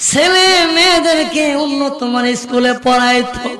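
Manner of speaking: half-sung preaching with long drawn-out phrase endings; intoned religious narration; melodic sermon storytelling. A narrator's reading. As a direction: chant the story to a congregation, stretching key words.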